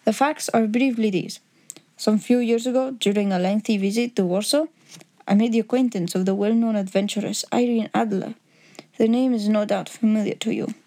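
lightly voiced formal Bohemian count; a hint of a Bohemian nobleman's accent. Count laying terms before Holmes, lightly accented and formal.

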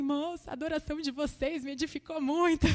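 lightly hammed-up weepy thanks; mock tearful. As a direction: play yourself over-emotional, voice lifted. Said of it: "chorando assim".

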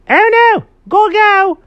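high, loud alarmed yelp; frantic high-pitched warning; panicked cry. Acted. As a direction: shout it in a hurried panic. Animals panic at garage door.

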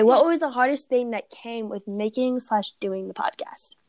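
reading the question in a whisper; breathy whispered question. Real, not acted. Reads question aloud unvoiced.

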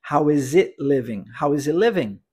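"How is it living?" with the T of "it" dropped; swallowed T. Shown as a demonstration. Teacher showing how natives swallow the T, linked and smooth. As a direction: let "it" lose its T and blend into "living". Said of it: "e vão engolir o T".

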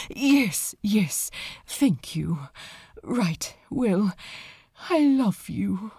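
earnest, tender declaration of love; heartfelt confession. Acted. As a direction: pour your heart out, a little rushed. Aziraphale's confession.

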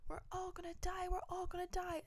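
high imitated kid wailing doom; mock child's wail. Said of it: "a kid in the fucking airport on our flight screaming".

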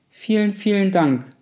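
high, loud, bubbling with glee; exuberant thanks. Acted. Little blue fish thanks the rainbow fish, gleeful and loud. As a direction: gush it out, overjoyed. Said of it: "blubberte der kleine blaue Fisch übermütig".

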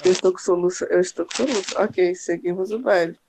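speaking through hiccups; talking with hiccups. Real, not acted. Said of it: "eu tô com soluço na hora da live".

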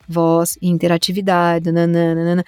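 "voz, interatividade, nananana" on one low, level tone; same even intonation. Shown as a demonstration. Voice artist showing how assistant phrases are read, "nananana" in monotone. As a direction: keep "interatividade, nananana" unvarying, without rise or fall. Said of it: "tem que ser aquela mesma entonação".

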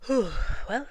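loud, high exclamation of dismay; startled rabbit. Acted. Rabbit waking to find it's night, loud and startled. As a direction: jolt awake and realise it's late.

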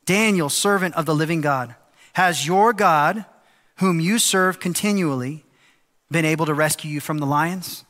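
a touch of anguish, stretch the words out; anguished plea. Acted. Pastor voicing the king calling into the den, mildly anguished. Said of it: "in an anguished voice".

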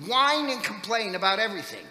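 loud, high furious yell at the grumbling priest; angry shout. Retold or imitated. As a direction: lose your temper and let him have it. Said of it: "I kinda lost it".

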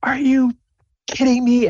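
high, indignant are you kidding me; outraged students. Acted. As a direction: protest the punishment in disbelief. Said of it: "they're both like".

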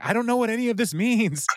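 very high-pitched helpless protest; mock bewildered wail. Ted baffled by camera directions, mock bewildered wail. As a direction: imitate a baffled complaint way up high.

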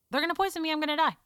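half-playful panicked dread; mock panic. Retelling her panic.

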